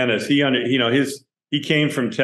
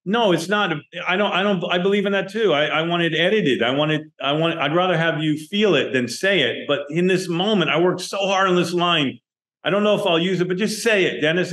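insistent pleading; 6 semitones higher than usual. Retold or imitated. Director insisting in retold argument.

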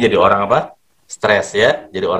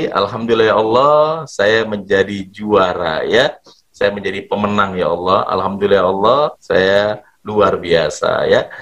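slow grateful prayer; 3 semitones lower than usual. Shown as a demonstration. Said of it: "Ulangi lagi".

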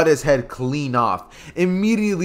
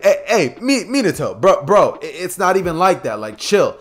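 put-on nervous old Hokage; 3 semitones higher than usual. Hiruzen nervously excusing himself.

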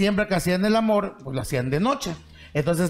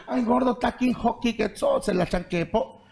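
sudden itch; 6 semitones higher than usual. Acted. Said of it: "le entra la, la, la, la, la ñaña".

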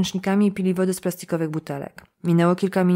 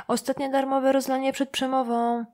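mild mock call; 6 semitones higher than usual. A narrator's reading. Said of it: "krzyknęła do mikrofonu".

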